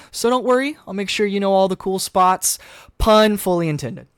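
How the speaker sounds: put-on playful show-off teen; class clown voice. GM voices Bobby joking.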